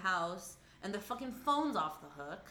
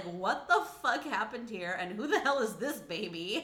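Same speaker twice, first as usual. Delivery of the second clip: mock outraged; 2 semitones higher, 5 dB louder than usual. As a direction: demand answers like a shocked parent. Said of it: "Hank and Julie are like".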